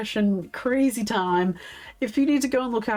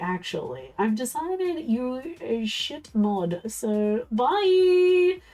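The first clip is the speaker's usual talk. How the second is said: mocking dismissal; 4 semitones higher, slower than usual. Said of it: "waiting for Jelly to be like".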